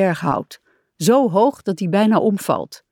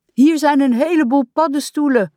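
Frog calls back, higher; calling out; 8 semitones higher, 4 dB louder than usual. A narrator's reading. Frog calls to Rat about mushrooms, happy higher call. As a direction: call out happily about a find. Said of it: "roept Kikker".

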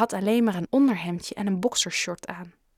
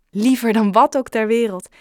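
heartfelt, louder answer with a smile; smiling; 3 semitones higher, 7 dB louder than usual. A narrator's reading. Father accepting his son's dinner offer, smiling. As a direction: say it with a smile, wholeheartedly. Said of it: "glimlachte zijn vader".

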